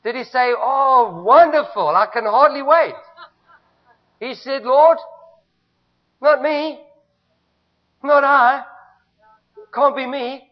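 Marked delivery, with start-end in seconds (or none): 0.6-2.9 hammed-up eager delight, laughing through it; sarcastic cheer of a man who is not excited; mock excitement. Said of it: "Was he excited?". 4.6-10.5 reluctant Moses. Retold or imitated. Moses pleading with God.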